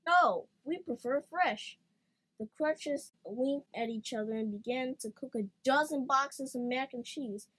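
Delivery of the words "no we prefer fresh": silly crutch voice. A narrator's reading. Crutches refusing leftovers.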